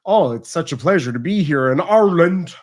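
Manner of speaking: put-on gushing visitor switching accent on "Ireland"; hammed-up accent slip on the place name "Ireland"; visitor's changed accent. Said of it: "be like somebody coming to Cork".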